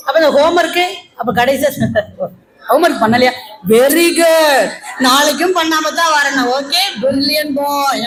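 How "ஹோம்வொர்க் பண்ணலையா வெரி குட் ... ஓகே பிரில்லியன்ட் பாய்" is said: mock praise with drawn-out words; smiling teacher. Teacher praising pupil who skipped homework, mock-sweet. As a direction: gush slowly through a forced smile. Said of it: "அப்படி சொல்லணும்".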